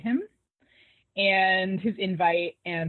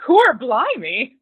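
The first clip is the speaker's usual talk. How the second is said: mock Cockney; 5 semitones higher, 9 dB louder, much slower than usual. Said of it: "I'm not even gonna try the accent".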